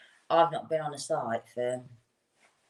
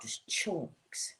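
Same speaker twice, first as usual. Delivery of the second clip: whispered disgust; 9 dB quieter than usual. Retold or imitated. Describing shoddy brickwork.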